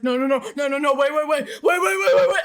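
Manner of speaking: loud rising panicked no and wait; panicked shouting. Retold or imitated. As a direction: shout to stop the wasp. Wasp near brother.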